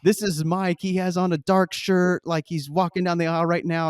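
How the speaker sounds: loud, high flight attendant on the PA; intercom announcement. Retold or imitated. Flight attendant calling out Mike to passengers, loud and high. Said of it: "she gets on the intercom".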